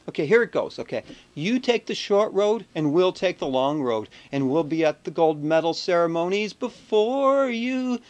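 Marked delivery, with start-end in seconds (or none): 1.3-8.0 slow, measured poem reading; poem recital. Acted. Reading his poem to the U S hockey team, slow and solemn. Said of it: "I wrote this little poem".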